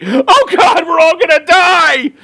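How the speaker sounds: squeaky panicky sidekick. Pretend. Mock panic over Earth's core.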